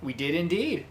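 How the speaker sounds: flamboyant charmer voice. Acted. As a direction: greet them like a dashing flirt. Voices Yuya.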